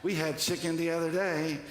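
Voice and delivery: lightly voiced neighbor, pitch climbing; interviewed neighbor. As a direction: play a mildly astonished neighbor on camera. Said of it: "they go interview the neighbors".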